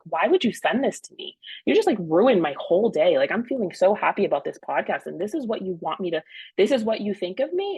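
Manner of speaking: retold hurt, mad complaint; mock indignation. Wife retells scolding her husband over the article, indignant. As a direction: put some indignant punch into the retelling. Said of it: "So then I get mad".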